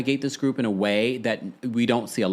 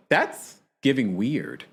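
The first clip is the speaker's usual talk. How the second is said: unimpressed; slower than usual. Retold or imitated. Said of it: "I was sort of like".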